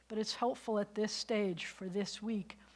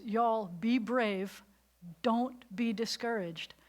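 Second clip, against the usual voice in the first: playful Southern preacher voice, slow; mock Southern accent; slower than usual. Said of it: "'cause he talks like that".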